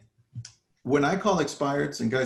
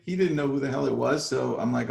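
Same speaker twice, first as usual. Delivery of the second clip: ordinary talk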